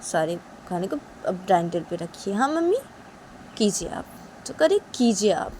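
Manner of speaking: daughter-in-law sulking at mother-in-law; sulky Uma. Acted. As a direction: snub her offer sulkily.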